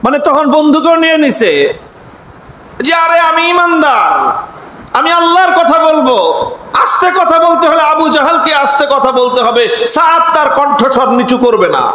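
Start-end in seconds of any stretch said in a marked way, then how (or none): 2.9-9.9 raised, defiant voice of a believer; defiant loud retort. Retold or imitated. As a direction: throw the words back even louder. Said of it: "আরো চেচ্ছেন সাদ ইবনে মুআজ". (উঁচু গলায় দৃঢ় জবাব)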